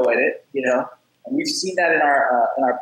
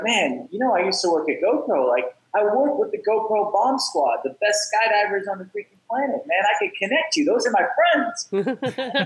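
higher, eager bragging, slowing at the end; eager offer; 6 semitones higher than usual. Retold or imitated. Offering a crying student an intro to skydivers, eager and higher. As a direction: show off your skydiver friends eagerly.

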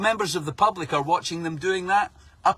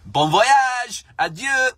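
high, loud cheery mock farewell; mock French police farewell; 8 semitones higher, 5 dB louder, much slower than usual. French police cheerily waving off the boats, hammed-up farewell. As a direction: wave them off like a jolly gendarme.

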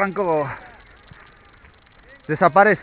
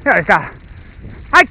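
squeaky praising a dog; 6 semitones higher, slower than usual. Real, not acted. Praising the dog during run.

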